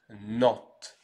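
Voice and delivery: NANTES said alone as French "nant"; pronunciation demo. Shown as a demonstration. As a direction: NANTES with nasal vowel and sounded t, silent s. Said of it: "On prononce".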